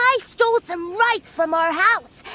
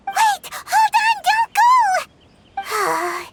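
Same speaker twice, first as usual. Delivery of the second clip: calling after; 12 semitones higher, much slower than usual. Acted. Paimon calls after fleeing kids.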